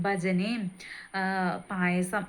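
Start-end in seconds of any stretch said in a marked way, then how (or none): 1.7-2.2 പായസം set apart after a pause, drawn out and lingered on; singled out. Shown as a demonstration. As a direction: give പായസം its own moment, savoured. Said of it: "അത് പ്രത്യേകം എടുത്തു പറയണം". (പായസം എന്ന വാക്കിന് പ്രത്യേക ഊന്നൽ)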